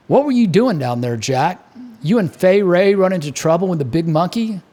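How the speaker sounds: lightly voiced Baltimore barman; hearty bartender, a hint of Baltimore; bartender Mick. Mick asks about trip.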